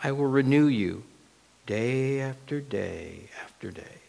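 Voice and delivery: soft, measured promise; God's voice. Acted. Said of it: "God's word and his voice says".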